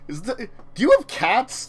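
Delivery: lightly voiced questioner; imitating landlord question. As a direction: ask it as a prying landlord. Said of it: "You're like".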